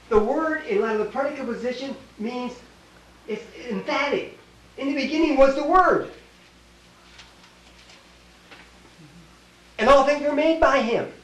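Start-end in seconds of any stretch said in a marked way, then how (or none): 4.8-11.1 proclaimed scripture. Acted. Preacher proclaims scripture loudly.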